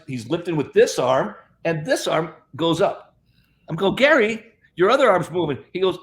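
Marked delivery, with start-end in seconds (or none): 4.0-5.6 louder and higher, thrilled; telling Gary his dead arm is moving, excited; excited call-out. Retold or imitated. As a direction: call it out like you can't believe it. Sees friend's paralysed arm move.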